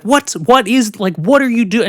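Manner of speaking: high, loud re-enacted bewilderment; alarmed protest. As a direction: act out a startled child protesting. Child protesting while being hit.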